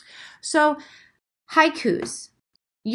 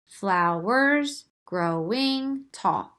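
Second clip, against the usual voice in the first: very slow, drawn-out poem reading; slow haiku reading; much slower than usual. Shown as a demonstration. Teacher reads her finished line slowly. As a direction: stretch flowers growing tall right out. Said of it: "That is five syllables".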